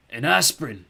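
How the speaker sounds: squeaked. A narrator's reading. Skellig squeaking to the boy, lightly voiced. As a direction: squeak it out, weak and grumpy. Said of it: "he squeaked".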